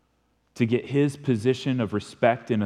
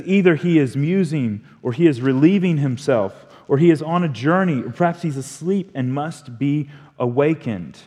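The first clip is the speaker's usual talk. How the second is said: sarcastic raised-voice taunt; mocking; 4 semitones higher, 5 dB louder than usual. Elijah jeering at prophets of Baal, louder sarcastic taunt. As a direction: needle them with sneering suggestions. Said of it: "It's mockery from Elijah".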